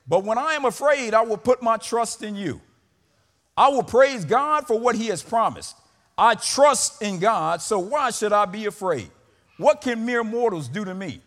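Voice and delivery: punched, forceful psalm reading; declamatory scripture reading. Acted.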